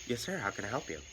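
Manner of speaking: soft, courteous clerk tone; polite service voice. Retold or imitated. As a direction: sound as polite as you can. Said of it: "my most polite customer service voice".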